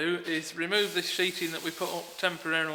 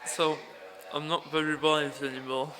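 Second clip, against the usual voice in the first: numb mouth. Real, not acted. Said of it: "I've got a very numb mouth".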